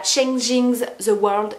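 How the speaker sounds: brand name in English with a French accent. Real, not acted. Vlogger naming an English brand, French accent. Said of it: "excusez mon accent".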